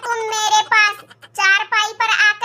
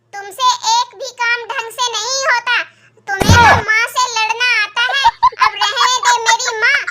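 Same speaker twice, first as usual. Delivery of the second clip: scolding husband. Acted. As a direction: scold the wife for fighting with mother.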